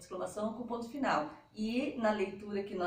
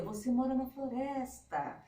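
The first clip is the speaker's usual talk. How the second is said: admiration; 3 semitones higher than usual. Shown as a demonstration. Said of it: "demonstra admiração, surpresa".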